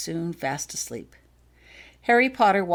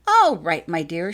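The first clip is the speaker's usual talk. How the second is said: cheerfully; 8 dB louder, slower than usual. A narrator's reading. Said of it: "she announced cheerfully".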